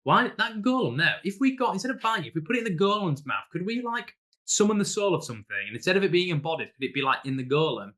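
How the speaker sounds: excited player idea. Retold or imitated. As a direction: pitch it up like a player who's just had a brilliant idea. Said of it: "So you're like".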